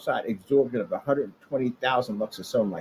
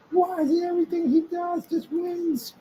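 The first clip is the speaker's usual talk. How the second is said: envious rival. Retold or imitated. Voicing a jealous rival.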